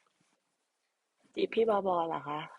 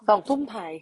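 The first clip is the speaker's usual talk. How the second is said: loud correction; 3 semitones higher, 9 dB louder than usual. Real, not acted. Correcting match time loudly.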